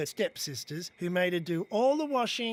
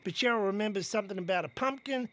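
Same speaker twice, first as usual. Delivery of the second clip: ordinary delivery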